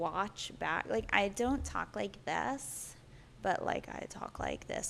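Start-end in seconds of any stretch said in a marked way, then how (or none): 3.4-4.9 low, creaking, creaky vocal fry. Demonstrating how the speaker sounds on playback, in vocal fry. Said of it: "like I have the vocal".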